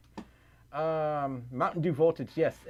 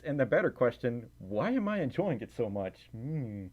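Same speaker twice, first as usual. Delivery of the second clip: ordinary talk, nothing marked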